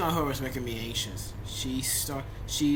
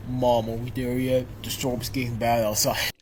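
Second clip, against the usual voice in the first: put-on girl voice; 6 dB louder than usual. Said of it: "time for my brilliant girl voicing".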